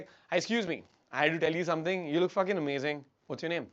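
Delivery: simple, direct statements with falling ends; casual, assured, settling downward; breaking rapport. Shown as a demonstration. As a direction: introduce yourself without asking permission. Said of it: "You'll simply be like".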